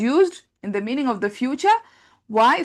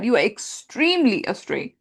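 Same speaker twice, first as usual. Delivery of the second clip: "extremely" stretched out and raised in pitch; stress on EXTREMELY. Shown as a demonstration. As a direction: lean hard into "extremely". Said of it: "trying to capture that idea of the strongest".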